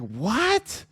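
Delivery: shrill disbelief. Retold or imitated. Vlogger mocks a baffled listener with a squeaky falsetto cry. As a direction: shriek at Joe in mock outrage. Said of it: "It's like".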